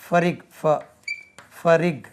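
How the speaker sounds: फरिग said loud and clipped as a sound drill; teaching the sound. Shown as a demonstration. Teacher drilling the syllable of example aloud. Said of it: "लेकिन इसका तलफ़ुज़ जो है".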